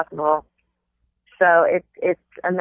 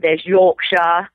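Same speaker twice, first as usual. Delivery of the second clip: slow, drawn-out Yorkshire accent; slower than usual. Shown as a demonstration. Actor naming a British dialect in slow Yorkshire accent. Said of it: "there are regional accents".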